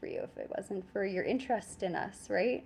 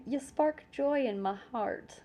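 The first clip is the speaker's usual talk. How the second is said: cheesy line; 4 semitones higher, slower than usual. Pretend. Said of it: "My God, I'll never do that again".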